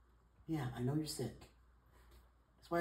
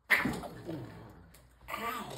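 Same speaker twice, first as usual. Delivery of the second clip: real "ow" of pain; pained yelp. Real, not acted. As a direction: cry out at a sudden swat. Hit by the cat.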